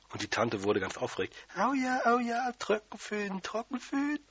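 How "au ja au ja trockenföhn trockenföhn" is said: aufgeregtes Quietschen. A narrator's reading. Aufgeregte Tante über den Föhn.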